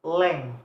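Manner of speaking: "lang" said on its own, firmly, with a fall; teacher picking out "lang"; stressed syllable alone. Shown as a demonstration. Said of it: "the stress is in the first syllable".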